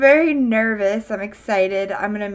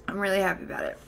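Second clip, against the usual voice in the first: much softer, said to herself; softer repeat; 3 semitones lower, 7 dB quieter, much faster than usual. Real, not acted. Streamer softly repeats to chat that she is happy. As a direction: let it land quietly, almost private.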